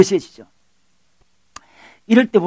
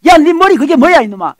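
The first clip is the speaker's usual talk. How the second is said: high, loud mock telling-off; acted irritation; 7 semitones higher, 4 dB louder than usual. Stressed father picks on his child's hair, mock irritated. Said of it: "이렇게 막 짜증을 내요".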